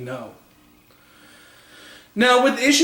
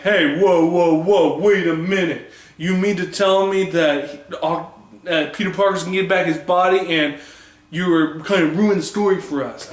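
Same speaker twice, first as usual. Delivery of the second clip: mock fan protest. Fans protesting the spoiler.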